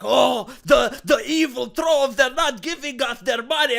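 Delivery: mock whine. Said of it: "they will go like".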